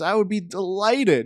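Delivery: confident self-assured tone. Retelling how the other side replied: imitating a lawyer sure of winning. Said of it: "a lawyer who knows he's got the case in the bag".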